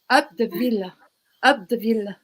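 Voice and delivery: put-on light French accent. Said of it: "say it in your French accent".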